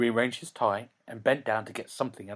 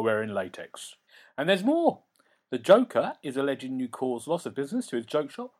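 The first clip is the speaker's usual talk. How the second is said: a hint of the nervous lawyer; 2 semitones higher than usual. Lawyer lists claims.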